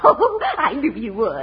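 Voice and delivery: laughing. Acted. Miss Petty laughs, delighted.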